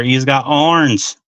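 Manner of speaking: slow, lightly put-on English accent. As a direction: drawl it out in a hinted English accent. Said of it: "in the English accent".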